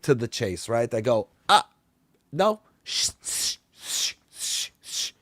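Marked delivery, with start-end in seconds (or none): 1.5-5.1 calm her down with a hush. Retold or imitated. Vampire hushing the frustrated lady at the washer, breathy shush.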